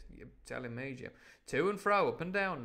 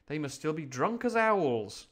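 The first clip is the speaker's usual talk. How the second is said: put-on louder sniffy six-year-old's voice; Jim; 3 semitones higher, 6 dB louder than usual. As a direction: play an indignant little boy, loudly. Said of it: "I'll do that in Jim's voice".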